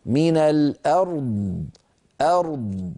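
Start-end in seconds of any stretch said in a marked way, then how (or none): 0.1-1.7 slow من الأرض with the r sounded before the d; من الأرض held slowly, r and d both clear. Shown as a demonstration. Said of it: "انتبهوا".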